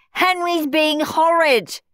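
high, loud, drawn-out tattling wail. A narrator's reading. Steve tells his mother on Henry, wailing. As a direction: whine it out loudly, slowly. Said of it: "wailed Steve".

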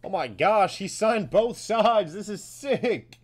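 loud, slow, emphatic amazement; real thrilled outburst; amazed excitement. Real, not acted. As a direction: react big to a rare find. Amazed at double-signed card.

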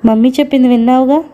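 quick, playful tease; teasing. Acted. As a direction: tease his new wife lightly and quickly. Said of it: "అన్నాడు కొంటెగా". (కొంటెగా, వేగంగా ఆటపట్టిస్తూ)

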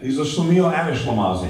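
chuckling schlemiel and schlemazel; laughing insult. Real, not acted. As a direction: toss off the insult through a laugh.

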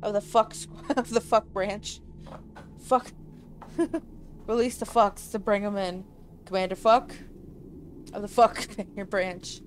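giggling through the words; laughing. Real, not acted. Player laughs at his own slip while reading the game line. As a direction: crack up while saying it.

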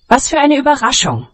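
high, fast happy chirp; happy squeak. A narrator's reading. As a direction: squeak it out with joy. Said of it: "piepste sie fröhlich".

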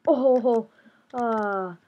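loud, bursting ho-ho laugh; odd chuckle. Real, not acted. Player amused by the rivals, loud ho-ho laugh. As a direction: let a silly laugh burst out. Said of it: "I don't know why I'm laughing like that".

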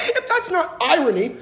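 high, laughing through the words; high giggling disbelief. Real, not acted. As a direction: crack up while telling. Laughing at deleted tweet.

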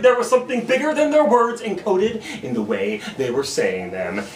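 emphatic, rhythmic spoken-word lecture; slam poetry. Acted. Poet teaching the crowd about infixes, slam poetry. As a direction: punch the openings and explain it like a performer.

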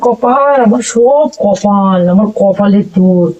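hammed-up woe is me; mock lament. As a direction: drag it out like a tragic lament. Lamenting her fate.

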